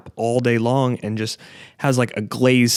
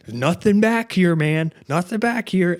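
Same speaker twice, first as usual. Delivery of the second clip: talking to the dog; 7 semitones higher than usual. Retold or imitated. Showing the dog the empty toolbox.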